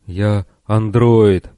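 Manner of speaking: slow, toneless android voice; lifeless voice. Acted. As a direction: speak it dead and empty. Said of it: "безжизненным голосом".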